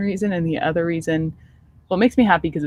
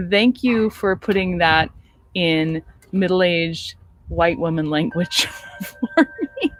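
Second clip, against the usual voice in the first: dry sarcastic thanks; slower than usual. Retold or imitated. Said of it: "I said".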